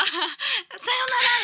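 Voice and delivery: very slow, high, laughing farewell; casual goodbye. Retold or imitated. Dreamer waving bye to trapped women, slow laughing farewell. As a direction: drawl it out breezily while laughing. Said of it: "みたいな".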